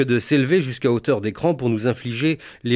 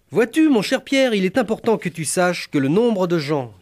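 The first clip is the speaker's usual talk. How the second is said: high, lofty mentor voice; a grand older colleague giving advice; Jacques Martin; 6 semitones higher than usual. Retold or imitated. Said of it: "Jacques Martin ... me fit une remarque".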